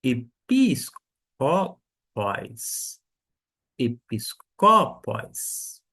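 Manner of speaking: episcopos said very slowly, syllable by syllable; slow demonstration. Shown as a demonstration. Greek teacher slowly models episcopos for students. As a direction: spell episcopos out slowly for the class. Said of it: "Agora a palavra".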